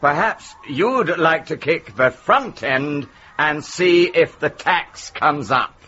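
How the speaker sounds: slow, deliberate punchline as a policeman; lightly acted, unhurried officer. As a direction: spell out the punchline in a mild officer voice. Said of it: "so the officer says".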